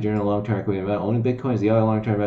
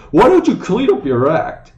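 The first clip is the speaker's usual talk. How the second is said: high, loud put-on mocking voice; hammed-up impression of a scolding president; mocking Trump; 8 semitones higher, 8 dB louder than usual. Streamer mimics Trump lecturing others, loud and high. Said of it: "he's like".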